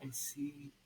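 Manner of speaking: a breathy whispered line; whispered lyric. Acted. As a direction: breathe it like a secret. Song lyrics recited.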